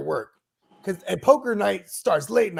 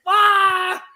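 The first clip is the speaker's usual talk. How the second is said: imitated outburst; 14 semitones higher, 5 dB louder than usual. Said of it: "get on me so tough".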